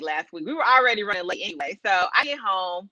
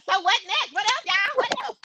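upbeat host; 9 semitones higher than usual. Retold or imitated. Voicing friend continuing show.

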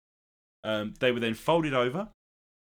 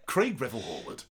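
Craig Revel Horwood voice; 4 dB quieter than usual. Retold or imitated. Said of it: "Do the voice again".

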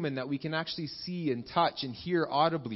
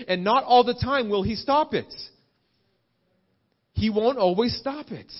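raised, driving sermon delivery; emphatic preaching; 3 semitones higher than usual. Real, not acted. Preacher warning believers that opposition will come, emphatic preaching. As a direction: preach it with rising insistence.

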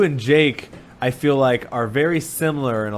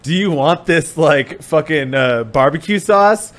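louder cheery robot pitch; AI Zuckerberg; 4 semitones higher, 6 dB louder, slower than usual. Retold or imitated. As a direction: play an eager metaverse avatar. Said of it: "he's like".

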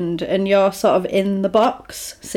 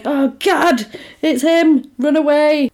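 mock panic; 6 semitones higher, slower than usual. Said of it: "you're like".

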